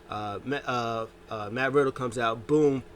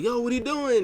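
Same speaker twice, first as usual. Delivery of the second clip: much higher, louder mock complaint; mock annoyed; 12 semitones higher, 4 dB louder than usual. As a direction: confront him, half-hammed. Angry partner quoted.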